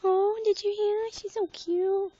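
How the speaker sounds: delighted. Real, not acted. Delighted by the bird.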